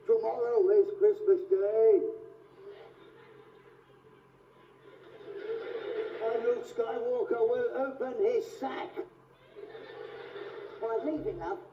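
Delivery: a hint of booming Darth Vader. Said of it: "opening scene from that new film".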